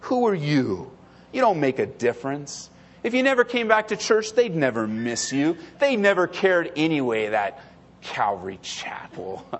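understated, dismissive accuser's voice; enemy's taunts. Acted. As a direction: belittle the listener with a hint of the devil. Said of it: "the enemy comes along and says".

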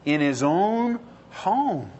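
each word laid down slowly; slow emphatic. Shown as a demonstration. Preacher answering his own question, slow and weighty. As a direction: spell it out, very slow.

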